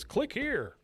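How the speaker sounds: slow, mock sultry ad line; reading the ad. Podcaster reading a porn site pop-up, slow and mock. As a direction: read the pop-up ad slowly. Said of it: "it says".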